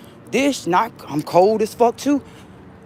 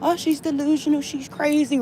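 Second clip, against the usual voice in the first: mocking; 9 semitones higher, 4 dB quieter than usual. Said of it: "everybody that".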